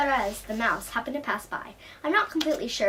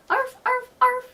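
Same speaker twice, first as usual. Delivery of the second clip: high, loud barking dog; 14 semitones higher, 7 dB louder, slower than usual. Acted. Dog answering Martina, loud high barks. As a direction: bark it out, loud and proud. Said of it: "barked the dog loudly".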